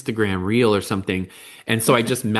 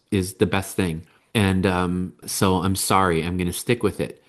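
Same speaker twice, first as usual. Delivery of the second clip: serious, sincere apology; 2 semitones lower than usual. Acted. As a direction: apologise to a child, gently but firmly.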